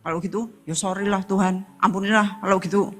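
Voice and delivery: quick, soft, throwaway sorry to God; insincere mock apology. Mocking a half-hearted sinner's quick mumbled apology to God. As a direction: toss off a careless apology, not meaning it. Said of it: "saudara nggak tenanan ngomongnya".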